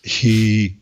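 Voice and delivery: slow, drawn-out words with long gaps; slow talker impression. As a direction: space every word out to mimic a very slow talker. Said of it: "He talks so slowly".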